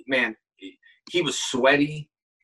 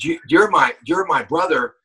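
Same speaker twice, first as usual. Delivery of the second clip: stiff nervous actor; 2 semitones higher, 4 dB louder than usual. Retold or imitated. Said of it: "he said".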